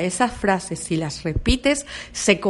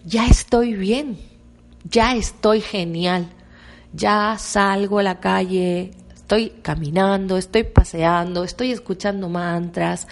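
slow affirmation. Shown as a demonstration. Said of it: "quiero que digas".

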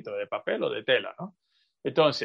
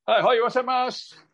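1 excited learner; 9 semitones higher than usual. Retold or imitated. Imitating a learner noticing.

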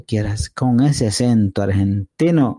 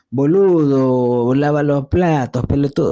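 mock Argentine accent; 4 semitones higher than usual. Imagined Argentine girlfriend ordering him to wash dishes, mock Argentine accent. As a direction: bark it like an Argentine girlfriend, a bit hammed-up. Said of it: "pero ya con su acento".

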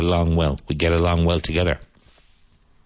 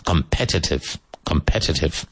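Competitive stressed as com-PET-itive; stress on second syllable. Shown as a demonstration. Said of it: "Emphasis on the second syllable".

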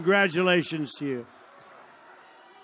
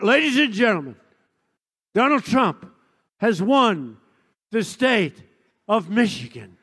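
announcer voice. Retold or imitated. Announcer calling the state.

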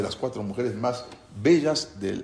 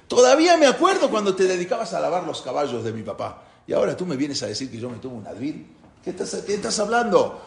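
angry retort; 5 semitones higher than usual. Retold or imitated. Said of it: "se enojó fuertísimo".

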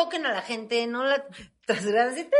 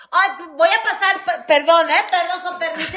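cortesía cantadita; 6 semitones higher, 4 dB louder than usual. Retold or imitated. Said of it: "aquí es".

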